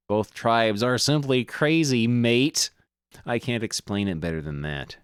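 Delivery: lightly hammed Australian accent; Australian adventurer voice. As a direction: play the greasy Aussie digger, mate. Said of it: "I can't keep doing that voice".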